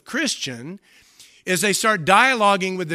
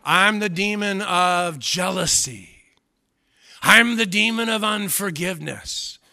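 hammed-up demon voice; 3 semitones higher, 4 dB louder than usual. Preacher mocking demons that name sins, in a hammed-up demon voice. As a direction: play the demon naming itself, half in jest. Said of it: "not try to talk like a demon".

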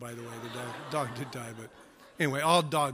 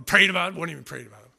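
mock indignant; 5 dB louder, much faster than usual. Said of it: "Volume's going".

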